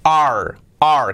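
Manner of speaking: "Are" as an open "ah" closing on English r; isolated "Are" with a clear English r; A plus English R. Shown as a demonstration. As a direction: model "Are" carefully, one word at a time. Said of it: "A y la R".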